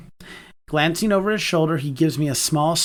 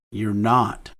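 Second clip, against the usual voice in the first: reassuring; 6 semitones lower than usual. A narrator's reading. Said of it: "Quinn reassures".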